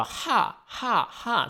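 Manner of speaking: short sharp grunts; sword swing grunts. Shown as a demonstration. Host demonstrating game attack sounds, sharp grunts. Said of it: "你可能就要哈哈哈这种".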